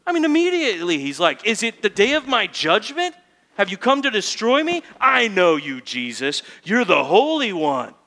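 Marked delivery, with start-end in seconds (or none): 1.4-7.9 higher and louder, a frightened demon yelling; preacher acting out the demon shouting at Jesus. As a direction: shout it out in panic, naming him. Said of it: "he starts just shouting".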